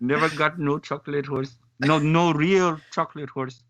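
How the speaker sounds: badly faked French-Canadian accent. Co-host imitates the wrestler's horse line, bad French accent. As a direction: have a clumsy go at a French accent. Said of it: "None of us can do a French accent".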